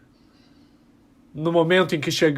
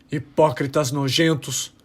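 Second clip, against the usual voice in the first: slow, softer and lower, disgusted; quiet contempt; 4 semitones lower, 4 dB quieter, slower than usual. Acted. Rebel condemning the Lisian hypocrites, quiet slow disgust. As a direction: let the contempt drip out slowly.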